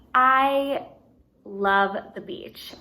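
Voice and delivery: a touch of excitement, slow and stressed; excited. Shown as a demonstration. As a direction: lean into the love with light enthusiasm. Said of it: "It's something I'm excited about".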